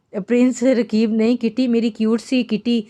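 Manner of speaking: lightly innocent, sweet correction. A narrator's reading. Young bride innocently correcting the prince about her kitty. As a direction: say it with a hint of childlike innocence. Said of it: "मासूमियत से बोली".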